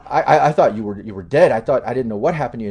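a touch of panic, spilling out fast; distressed brother. Acted. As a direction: brother telling sister he feared her dead. Brother relieved, voice rising.

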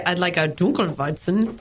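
Dunkelweizen said German-style, "DOON-kel-vite-sen"; affected German Dunkelweizen; pretentious German ordering. Acted. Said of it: "sound like you're being kind of an idiot".

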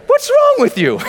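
very high, loud mock shout; hammed-up shrieking reproach; mimicked indignant yell. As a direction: yell it like an appalled friend. Mimicking friends' reaction to change.

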